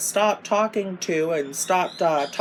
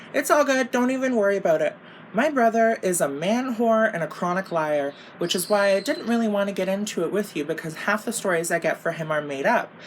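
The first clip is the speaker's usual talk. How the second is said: mocking sister voice; 4 semitones higher than usual. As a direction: ham up the know-it-all sister, higher.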